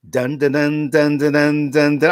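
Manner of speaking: humming the dramatic sting dun dun dun; imitating the show's theme sting; mock theme music. Complaining about the music, humming the theme sting. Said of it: "they played".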